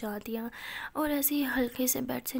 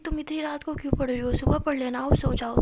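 raised, insistent scolding, getting louder; scolding sister; 2 semitones higher, 6 dB louder than usual. Acted. Elder sister scolds Pari for studying late, loud scolding. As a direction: call her back to bed, louder each line.

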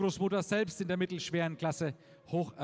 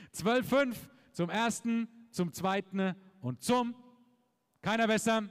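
auctioneer; 3 semitones higher than usual. Real, not acted. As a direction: stretch out the last call for bids. Final call before the hammer.

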